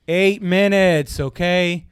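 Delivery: slow, drawn-out mock impatience; imitating a man who is over it; fed-up retort. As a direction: stretch it out as a curt correction. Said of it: "over this guy yelling".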